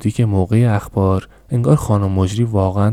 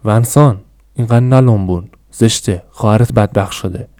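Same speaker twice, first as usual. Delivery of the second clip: louder scolding shout that fades off; 4 dB louder than usual. Acted. Mother scolding her greedy eldest son at the table, loud shout. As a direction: snap at the son, loud at first, then easing. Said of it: "فریاد زد".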